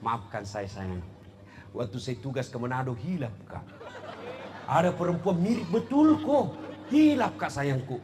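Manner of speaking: mengaku khilaf sambil tertawa kecil; pengakuan sambil tertawa. Acted. (suami mengaku selingkuh pada istri, sambil tertawa)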